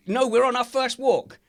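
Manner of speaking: high, loud defensive cry; acted loud excuse; indignant mock protest.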